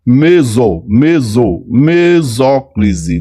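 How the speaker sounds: me-so, me-so, then mesóclise drawn out slowly; syllable by syllable. Shown as a demonstration. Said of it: "No meio é mesóclise". (soletrando mesóclise devagar)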